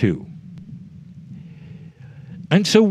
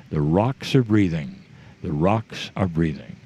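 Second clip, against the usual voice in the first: lower, lightly put-on Irish accent; 8 semitones lower, 5 dB quieter than usual. Speaker repeats the Irish woman's phrase to the group, in a light Irish accent. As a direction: echo the Irish woman's lilt, lower in pitch. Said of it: "they're breathing in her accent".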